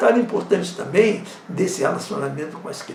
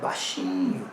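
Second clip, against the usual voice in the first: slow, hushed and lower, nearly unvoiced; gentle hushed demo voice; soft low voice; 14 semitones lower, 6 dB quieter, slower than usual. Shown as a demonstration. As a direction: show the kids how softly to speak. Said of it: "E, ó, tom de voz".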